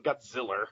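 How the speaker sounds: Godzilla ending in a hard R, "Godziller"; mock mispronunciation. Shown as a demonstration. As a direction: put an R on the end of Godzilla. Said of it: "At least I'm not saying".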